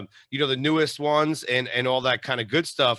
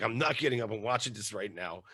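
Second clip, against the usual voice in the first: low, soft, muted refusal; sleepy wife's reply; 4 semitones lower, 8 dB quieter than usual. Retold or imitated. Wife refusing to get up, low and hushed. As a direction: refuse quietly, voice kept low.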